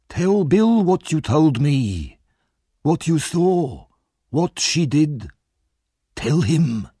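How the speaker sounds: put-on high, creaking old man's voice, slow and sinister; sly old villain. A narrator's reading. Fagin baiting Sikes about the traitor, menacing. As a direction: needle him with a hateful question.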